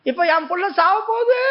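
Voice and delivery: mother wailing at God, lightly acted; acted crying plea. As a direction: cry out holding God to his word. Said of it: "அப்படின்னு அழுதா".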